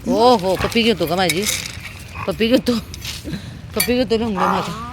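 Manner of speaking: high, loud cooing to a pet. Real, not acted. Cooing to a dog.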